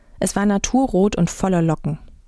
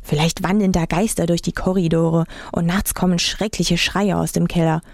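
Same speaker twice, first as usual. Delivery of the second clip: 1 spooky teasing. Retold or imitated. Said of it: "mit Gruselgeschichten aufzuziehen".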